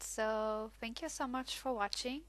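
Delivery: slightly slurred speech; words running together, slurred; slurring words. Real, not acted. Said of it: "I'm totally slurring my words".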